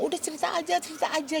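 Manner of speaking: coaxing "cerita aja" pitched high; urging quote. Retold or imitated. A mother recalls Raffi urging her to speak, coaxing. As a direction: gently press her to tell it. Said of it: "Raffi ngomong".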